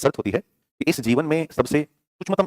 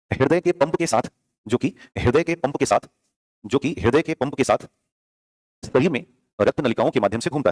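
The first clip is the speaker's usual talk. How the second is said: dictating. Shown as a demonstration. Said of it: "तो copy में लिखिएगा".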